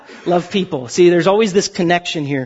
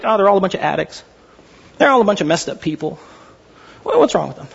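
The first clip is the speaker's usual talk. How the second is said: dismissive sneer; faster than usual. Retold or imitated. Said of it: "I'd look at homeless people like".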